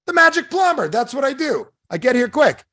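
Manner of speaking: very high, loud, proud announcement; boastful plumber. Acted. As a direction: show off as the miracle plumber. Plumber proudly answers amazed customer.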